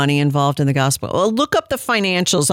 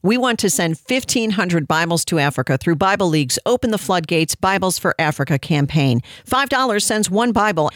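radio ad read; 3 semitones higher than usual. Acted. Host reading sponsor spot to listeners, upbeat ad voice. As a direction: sell the Bible campaign to listeners.

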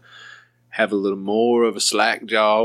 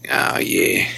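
breathy mock moan. Mock sultry reply.

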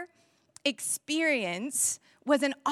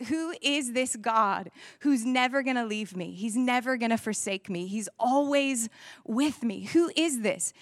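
awed wondering. Pretend. Wondering question in a storm.

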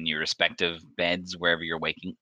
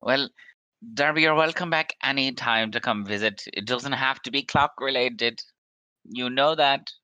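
welcoming host; 7 semitones higher, 3 dB louder than usual. Acted.

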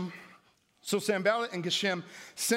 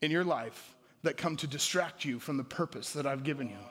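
God speaking; 4 semitones lower, 3 dB quieter than usual. Retold or imitated. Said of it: "He said".

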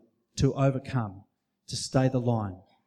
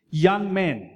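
put-on preacher's raised Churchill-style English accent; 5 semitones higher, 4 dB louder than usual. Preacher voicing Churchill to Harrow boys, English accent. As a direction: address the schoolboys in an English accent. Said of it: "He said it in an English accent".

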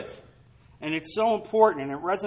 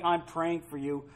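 gentle, caring; 3 semitones lower, 6 dB quieter than usual. Pretend. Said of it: "anytime you say to somebody".

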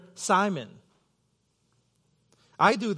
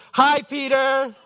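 slow, sing-song, much higher and louder schoolroom chorus; class greeting in unison; 7 semitones higher, 7 dB louder, slower than usual. Retold or imitated. Pastor imitates his fourth-grade class greeting him, sing-song chorus. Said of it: "the whole class stood up and said".

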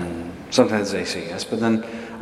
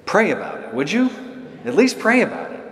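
higher, coaxing plea that keeps climbing; pleading colleague; 12 semitones higher than usual. Retold or imitated. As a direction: beg him to at least pray on it. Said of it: "He goes".

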